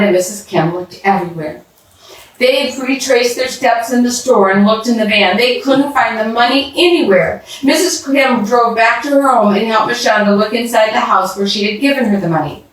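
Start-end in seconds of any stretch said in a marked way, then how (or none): none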